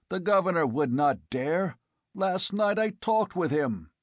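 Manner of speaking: forceful. A narrator's reading. Conan defends himself.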